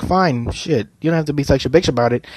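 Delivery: a quick, sulky mutter after being warned off; grumbled comeback. Retold or imitated. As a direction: grumble it off sulkily as you back down. Patrolman grumbling retort to Bulma.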